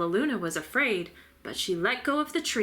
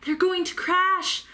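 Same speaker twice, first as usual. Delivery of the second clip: gasped; 10 semitones higher, 4 dB louder than usual. A narrator's reading. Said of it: "gasped Stella Luna".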